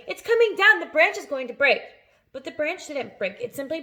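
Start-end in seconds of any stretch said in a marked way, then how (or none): 0.1-1.8 loud, high alarmed shout. A narrator's reading. Aunt shouts that the branch will break, loud and high. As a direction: yell that it's falling. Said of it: "Aunt Sponge shouted".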